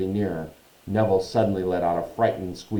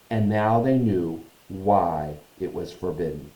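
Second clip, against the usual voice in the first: measured storytelling narration; story narration. A narrator's reading. Reads the story aloud.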